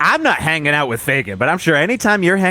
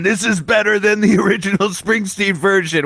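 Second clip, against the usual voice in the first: voiced caller; 4 semitones higher than usual. Radio callers voiced by host.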